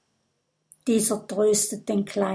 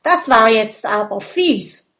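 indignant; 5 dB louder than usual. Acted. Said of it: "ruft Gudröd empört".

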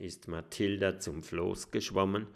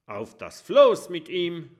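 higher, loud call; pirate yelling to throw him off; rowdy shout; 8 semitones higher, 8 dB louder than usual. Acted. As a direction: yell it to the crew. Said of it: "ruft Kabeljau Kurt".

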